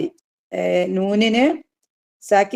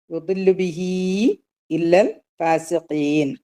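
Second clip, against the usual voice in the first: slower recitation; slower than usual. Shown as a demonstration. Teacher repeats the verse for students, much slower chant. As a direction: stretch ഫാസിഖീൻ out, slow and measured. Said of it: "അല്ലേ?".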